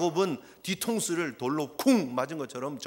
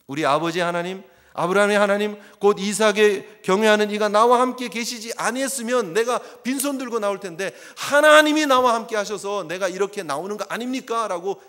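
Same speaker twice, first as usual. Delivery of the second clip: louder, proclaiming Jacob's words; forceful quote; 2 semitones higher, 8 dB louder than usual. Acted. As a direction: declare it boldly.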